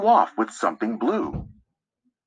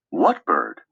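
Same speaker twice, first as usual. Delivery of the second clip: a lower, separate voice asking; puzzled listener; 12 semitones lower than usual. Acted. Listener asking the narrator about the nesting bird, lower puzzled voice. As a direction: drop low and ask, puzzled. A second voice asks a question.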